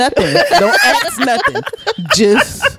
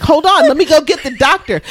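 fake concern; 7 semitones higher than usual. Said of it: "And I'll be like".

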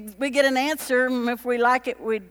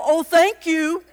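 gushing thanks; 6 semitones higher, 6 dB louder than usual. Pretend. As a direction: gush out thanks, pitched way up. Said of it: "take the correction and go".

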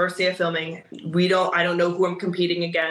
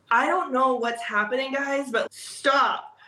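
flustered plea; 6 semitones higher, slower than usual. Retold or imitated. Fellow contestants react to her.

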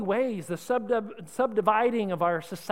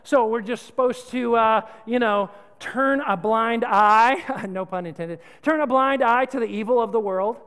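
mock indignant objection; 5 dB louder than usual. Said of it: "some of you are thinking".

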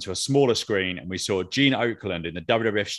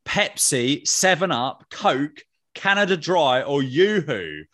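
higher-pitched, slow ad-voiceover imitation; lightly hammed-up commercial read; mock advert read; 5 semitones higher, slower than usual. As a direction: list the brands like a TV ad, pitched up. Reads out a retro advert quiz.

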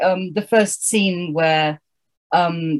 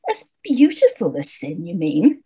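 lightly voiced sugary witch, lilting up; a hint of a sweet, corrective witch; sugared-over witch correcting. Witch correcting Sam about sin, lightly sugared. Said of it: "corrected the witch".

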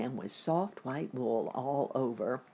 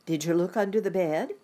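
calling back up; 4 semitones higher, 5 dB louder, faster than usual. Acted. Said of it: "her mother answered".

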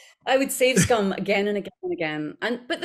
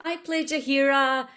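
mock Cameo greeting; 3 semitones higher than usual. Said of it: "I look at other people and I'm like".

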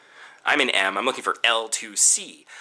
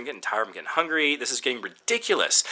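ordinary delivery

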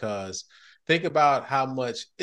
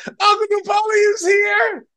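high, loud, stretched-out party holler; mock excited shout; 9 dB louder, slower than usual. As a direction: announce a favourite uncle's arrival at full volume. Acts out party greeting.

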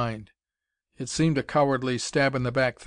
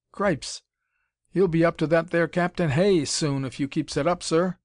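amazed Cockney; 4 semitones higher, 4 dB louder than usual. A narrator's reading.

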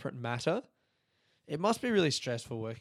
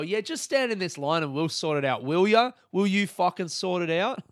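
louder, higher, building to a frustrated demand; exasperated mock clerk; 4 semitones higher, 4 dB louder than usual. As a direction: mimic the clerk, then snap at her. Mocking Qantas clerk, exasperated.

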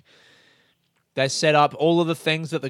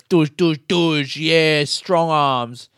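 mock macho; 5 dB louder, much slower than usual. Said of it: "He goes".

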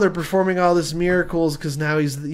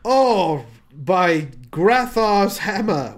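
slow, solemn sci-fi hero oath; dramatic exclamation; 2 semitones higher, much slower than usual. Acted. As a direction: draw it out like a starship captain. Acted sci-fi exclamation, Galaxy Quest.

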